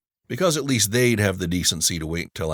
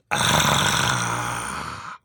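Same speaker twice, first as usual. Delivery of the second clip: exaggerated ah; 6 semitones lower than usual. A narrator's reading. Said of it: "with an overly exaggerated".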